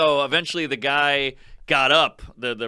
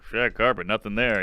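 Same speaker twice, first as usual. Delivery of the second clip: mimicking heckler; 5 semitones lower than usual. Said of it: "He's like".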